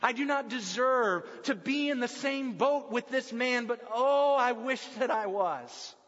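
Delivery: rising yearning, oh lifted, wish slowed; longing. Acted. Peter wishing to be in the boat with Jesus, yearning. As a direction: reach out with the oh and linger. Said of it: "hear the longing in Peter's voice".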